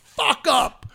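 high, drawn-out mock scream without full volume; retold scream. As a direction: re-enact screaming at an opponent, held back. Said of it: "Scream it".

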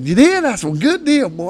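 high, loud delighted congratulation; fired up. Retold or imitated. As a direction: react thrilled for a buddy. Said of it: "I was fired up".

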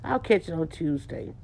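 a mumbled brush-off; mock lazy excuse. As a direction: grumble it like you're dodging the call. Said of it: "They're like".

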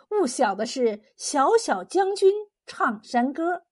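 slow, measured recital of a mountain-song verse; lightly lilting folk-rhyme recitation; recited folk song. A narrator's reading. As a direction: chant the verse line by line, unhurried. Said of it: "放开喉咙唱起山歌来".

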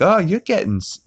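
high put-on Lois voice. Lois catches heavy Stewie, high fussing voice. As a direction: pitch it up like a fussing mother.

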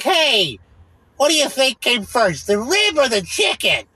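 high, slow, goofy ad-guy voice; lightly hammed-up dumb question; mock commercial guy. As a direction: parody the cheesy commercial actor asking. Mocking the commercial guy's line.

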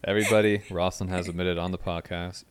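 loud mock announcement; announcing. Host teasingly announcing to listeners, loud. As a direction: call out to the whole audience.

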